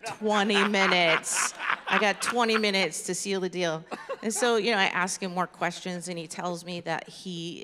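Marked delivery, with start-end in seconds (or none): 0.1-3.8 gleeful exclamation. Acted. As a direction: exclaim it loudly, relishing the opportunity. Gleeful reaction to the stranger's answer.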